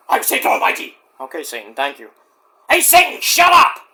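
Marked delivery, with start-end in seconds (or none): 0.1-0.9 whispered Satan voice; a hissed, hushed devil line. Acted. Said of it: "that's satire". 2.7-3.8 yelling. Acted. Yelling at Satan.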